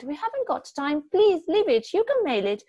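high, loud, rushed pleading; wife begging her husband to leave it, high and loud; frantic pleading. A narrator's reading. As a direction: talk him out of going back, desperate. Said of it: "she cried".

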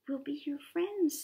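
small storybook creature voice; tiniest fish. A narrator's reading. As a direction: offer it as a tiny friendly fish. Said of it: "said the tiniest fish".

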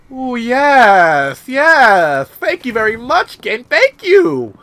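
high, loud, drawn-out delight; elated thanks. Real, not acted. Player thanking the game for guns, loud elation. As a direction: celebrate the loot at full voice.

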